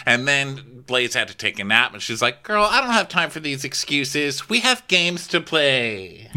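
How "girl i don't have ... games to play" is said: higher-pitched dismissive retort; mock impatient hostess. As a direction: imitate a hostess waving off excuses. Kenya brushing off excuses.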